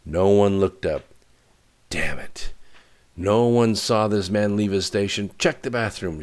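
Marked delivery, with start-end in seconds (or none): 1.9-6.2 narrated shout, moderately raised; angry shouting. A narrator's reading. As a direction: colonel loudly ordering a search, pitch lifted. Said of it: "shouted the colonel".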